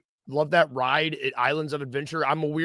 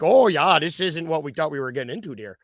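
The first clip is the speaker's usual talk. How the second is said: put-on Midwestern accent. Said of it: "that's not Canadian. That's Midwestern".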